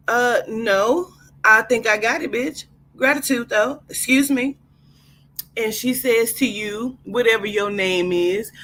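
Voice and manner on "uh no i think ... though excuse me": sassy attitude. Acted. Sassy guest reply.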